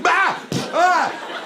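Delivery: short high-pitched screams; two quick yelps to cover a noise; sudden high "Ah", acted; demonstrated scream. Shown as a demonstration. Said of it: "you either scream".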